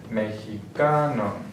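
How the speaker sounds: mexicano said slowly, stressed on CA; mexi-CA-no, lean on the next-to-last syllable; penultimate stress. Shown as a demonstration. Teacher giving examples of palabras llanas, penultimate stress. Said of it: "the second to last syllable".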